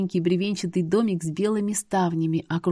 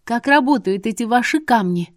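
higher, louder urgent question; anxious; 5 semitones higher, 6 dB louder than usual. A narrator's reading. Heroine hurries the seer as Mot approaches, anxious. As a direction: hurry him, alarmed.

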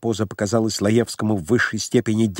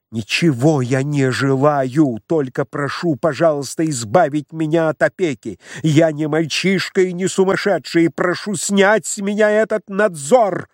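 взвинченно; 4 semitones higher than usual. Acted. Лаевский продолжает кричать.

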